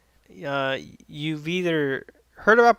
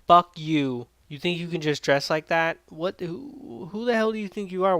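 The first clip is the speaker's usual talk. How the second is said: mock angry yelling; 5 semitones higher than usual. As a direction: yell it at the king in the cell. Punk yells at Kamoshida.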